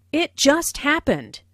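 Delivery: "just" punched to show it was very recent; stress on JUST. Shown as a demonstration. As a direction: hit the word "just". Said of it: "Notice the stress on just".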